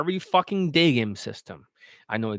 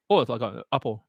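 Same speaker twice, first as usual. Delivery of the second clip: imitated Asian accent, slack vowels; mock Asian accent; 3 semitones lower than usual. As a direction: mimic an Asian-accented English learner.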